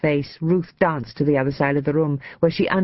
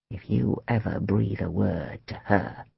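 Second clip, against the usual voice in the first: lowered, menacing voice; low warning; 5 semitones lower, 4 dB quieter than usual. A narrator's reading. Man warning his lover to keep quiet, low threat. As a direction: warn them in a low voice.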